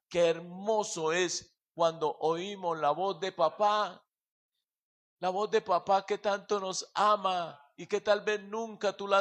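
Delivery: fervent prayer. Acted. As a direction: pray aloud over the standing congregation. Leads congregation in prayer.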